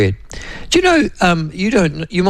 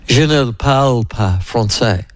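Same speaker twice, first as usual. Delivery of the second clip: halting schoolboy French, word by word; apologetic beginner's attempt at French. Visitor lost in French chatter, answering in schoolboy French. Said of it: "with my schoolboy French".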